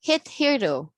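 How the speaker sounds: "Hit hero" said as hit HERR-doe; "Hit hero" with clear h and rolled middle; model pronunciation. Shown as a demonstration. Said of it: "That's correct".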